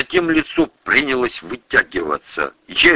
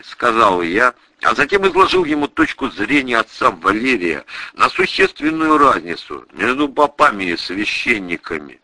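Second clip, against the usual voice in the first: usual speaking voice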